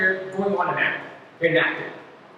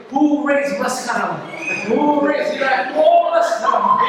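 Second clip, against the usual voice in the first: drawn out, higher-pitched mock wail; mock wailing mourner; 5 semitones higher, 4 dB louder, slower than usual. Hired mourner rousing others to cry, mock wailing. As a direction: stretch it out like a hired mourner working the crowd. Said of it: "Imagine everybody yelling and screaming".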